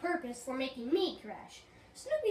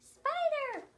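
frightened cry; 9 semitones higher than usual. Acted. Sees spider on track.

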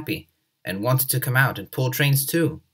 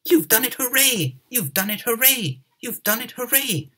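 cheering; 11 semitones higher than usual. Acted. Crowd cheers the engines.

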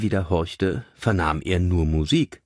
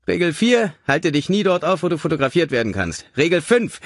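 higher-pitched, emphatic rule-giving; lecturing caller; 9 semitones higher, 4 dB louder than usual. A narrator's reading. Mystery caller reciting burglary rules to Richard, emphatic lecture. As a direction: announce each rule like an instructor.

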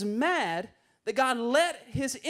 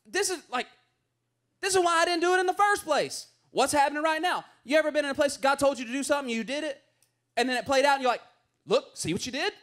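higher, louder, fast exasperated rant at God; exasperated complaint; 5 semitones higher, 3 dB louder, much faster than usual. Retold or imitated. Jonah complains to God about sparing Nineveh, higher and louder exasperated rant. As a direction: vent at God like you were right all along. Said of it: "And Jonah's like".

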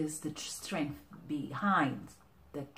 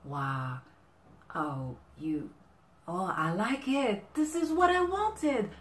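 delighted receiver; 4 semitones higher, 4 dB louder than usual. Acted. Someone receives the right gift from their partner, delighted. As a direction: wonder building into high, loud delight. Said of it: "you will see the kind of look I like".

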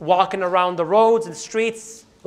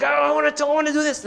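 imitated extreme anger; 5 semitones higher, faster than usual. Man in a fight ready to pop, mock extreme anger. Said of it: "which is extreme anger".

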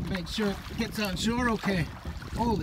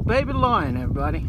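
excited presenter call; 2 semitones lower, 6 dB louder, faster than usual. Pretend. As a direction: announce it to the viewers. Presenter flourish to audience.

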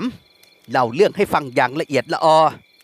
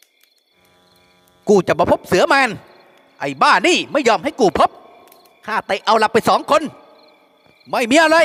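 fake bawling; 6 semitones higher, slower than usual. A narrator's reading. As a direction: bawl it out on purpose to cause a stir. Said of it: "แกล้งแหกปากร้อง".

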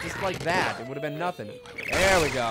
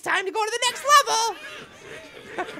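playful announcer; 4 dB louder, faster than usual. Acted.

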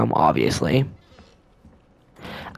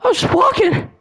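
whiny high voice. Real, not acted. Whiny after the scare.

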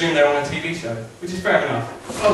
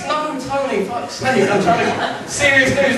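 exasperated; 11 semitones higher, slower than usual. Acted. Exasperated at the tiger.

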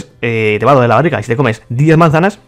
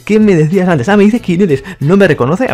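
higher and louder, worked up; excited confrontation; excited challenge; 6 semitones higher, 4 dB louder than usual. Real, not acted. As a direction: confront him, all fired up.

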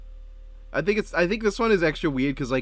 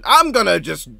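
mock threat; 4 semitones higher, 8 dB louder than usual. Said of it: "Daniel's like".

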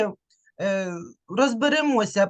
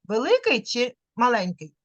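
ordinary talk

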